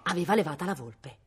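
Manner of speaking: plain reading voice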